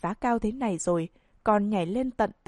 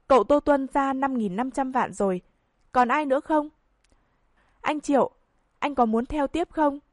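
higher, eager auctioneer call; 4 semitones higher than usual. Acted. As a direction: press the room for one more bid. Auctioneer urging bidders.

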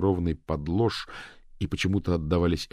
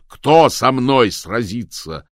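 loud, very slow repeated challenge; 5 semitones higher, 9 dB louder, much slower than usual. A narrator's reading. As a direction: drag out the challenge.

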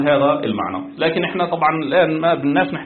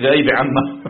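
amused retelling. Retold or imitated. Amused retelling of his rebuttal.

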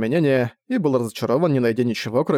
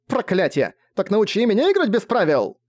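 desperate shout; 8 semitones higher than usual. A narrator's reading. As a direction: beg through tears. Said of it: "выкрикнула она".

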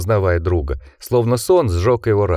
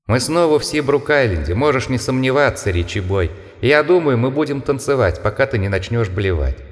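taunting monster voice; 3 semitones higher than usual. Acted. Taunting voices outside window.

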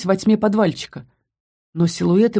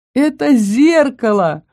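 surprised exclaim; 6 semitones higher, 4 dB louder, slower than usual. A narrator's reading. Hit forehead on mirror.

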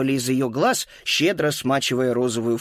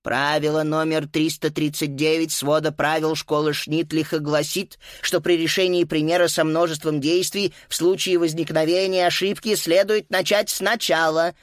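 pompous; 3 semitones higher than usual. Acted. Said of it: "важно проговорила госпожа Пенне".

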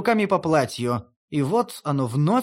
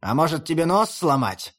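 musing drawl. Acted. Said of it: "задумчиво протянул волк".

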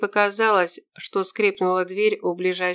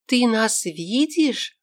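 horrified question; 4 semitones higher, much slower than usual. Acted. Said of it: "с ужасом спросила Тера".

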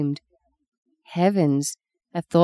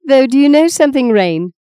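excited; 7 semitones higher, 8 dB louder than usual. Acted. Eager teasing question.

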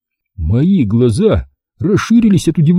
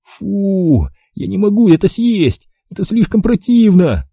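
high-pitched revolted protest; disgusted; 8 semitones higher than usual. A narrator's reading. Boy refuses to eat the vile dough, disgusted.

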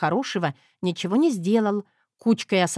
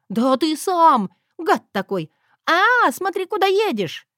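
louder, much higher angry outburst; flaring up; 8 semitones higher, 5 dB louder than usual. Acted. Wife flares up at husband mid-chase, shouting. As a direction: blow up at him, then panic. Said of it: "взвилась я".

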